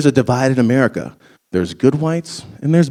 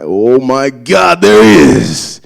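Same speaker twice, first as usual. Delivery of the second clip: excited; 5 dB louder, much slower than usual. Real, not acted. Spots black guy in crowd, excited.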